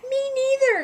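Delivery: high, surprised squeak. A narrator's reading. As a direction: pitch it up in surprise. Surprised reply.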